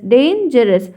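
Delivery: "डेंजरस" said in two parts, "डेन - जरस"; split into two syllables. Shown as a demonstration. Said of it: "दो चीज़ों को जोड़ के ऐसा लगे".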